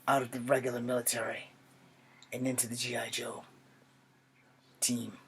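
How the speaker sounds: put-on measured, earnest young soldier with long pauses between phrases; Charlie Iron Knife. Young Native American soldier explaining himself to his grandfather, solemn and measured. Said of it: "I'm going to be a character from G I Joe named Charlie Iron Knife".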